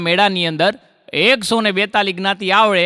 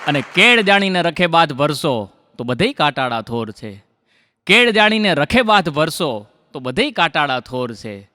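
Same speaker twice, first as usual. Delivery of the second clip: lifted line openings, falling rhyme endings; poetry recitation. Acted. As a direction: declaim rhymed couplets to a crowd. Recites rhymed verse to audience.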